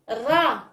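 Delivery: الراء said as just "ra"; fatha syllable. Shown as a demonstration. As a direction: model الراء as one open syllable "ra". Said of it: "نحلو الفيم ديالنا الفوق".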